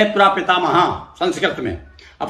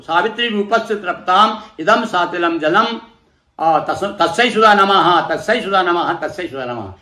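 mantra recitation. Shown as a demonstration. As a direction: intone it like a priest leading the offering. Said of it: "अब इसी प्रकार से".

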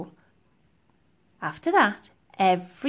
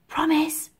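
put-on high, tiny child voice; pleading little girl; 7 semitones higher than usual. A narrator's reading. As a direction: ask hopefully as a small child. Littlest orphan asks for a promise.

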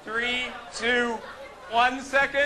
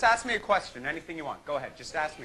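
ventriloquist act; 7 semitones lower, 4 dB quieter, faster than usual. Acted. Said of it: "ventriloquist act".

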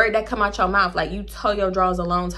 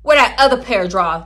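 demanding; 5 dB louder than usual. Retold or imitated. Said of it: "I'm like".

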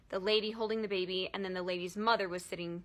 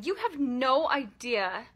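slow, pressing the words out with building anger; slow seething; 2 semitones higher, 4 dB louder, slower than usual. Pretend. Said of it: "and yelling".

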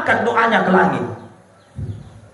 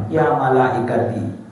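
divine voice; 9 semitones lower, 3 dB quieter than usual. Acted. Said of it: "apa kata Allah".

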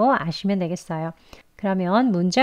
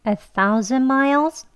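"A thousand miles" drawn out slowly, word by word; unhurried model phrase; slow practice; 4 semitones higher, much slower than usual. Shown as a demonstration. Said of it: "천천히 같이 해볼게요".

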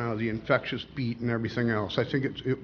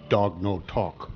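slow, lower deadpan delivery; lightly voiced deadpan joke character; deadpan Indian; 4 semitones lower, slower than usual. Joke: Indian answers cowboy.

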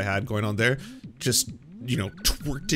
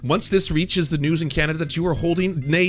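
loud, indignant bluffing rant; blustering threat; 4 semitones higher, 4 dB louder than usual. Retold or imitated. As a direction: threaten them with invented treaties. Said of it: "I was just spouting bullshit at this point".

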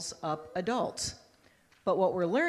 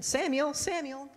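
voice of God calling; 8 semitones higher than usual. Acted. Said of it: "he hears this voice again".

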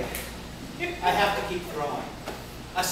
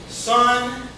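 calm. Retold or imitated. Umpire calmly putting the rookie in his place. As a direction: settle the kid down, unhurried. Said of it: "and calmly says".

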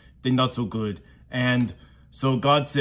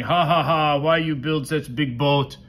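mildly acted teasing ha-ha-ha; mock laughing. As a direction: poke fun like a jeering friend in a children's story. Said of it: "they were laughing at him and saying".

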